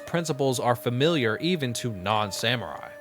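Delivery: measured lore narration; story narration. A narrator's reading. Gamer reading samurai lore to viewers, measured narration. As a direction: read it out carefully, phrase by phrase. Reads game's lore aloud.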